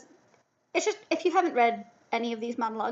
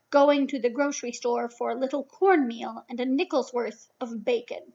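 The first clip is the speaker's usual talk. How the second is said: dramatic monologue reading. Acted. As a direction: read it as a measured, lightly acted monologue. Reads monologue for class.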